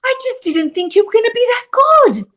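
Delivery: high, wailing mock sob; Chris Noble crying. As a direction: imitate a tearful man gushing. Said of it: "He's crying".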